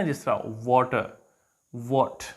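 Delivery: वाटर and what with lips rounded, slow; what with a round aw sound; rounded aw vowel. Shown as a demonstration. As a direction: say वाटर as waw-ter, rounded. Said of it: "lips जो है ना उनको थोड़ा सा round करके बोलना".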